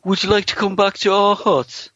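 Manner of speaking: high, put-on shy voice; Barry's flirting line. Imitating Barry's awkward chat-up line. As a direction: mimic a timid flirt asking gently. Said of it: "utters the immortal line".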